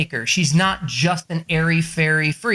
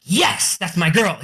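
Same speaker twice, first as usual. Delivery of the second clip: proud cheer; 2 semitones higher, slower than usual. Retold or imitated. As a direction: cheer her on like a proud dad. Proud dad cheering daughter's answer.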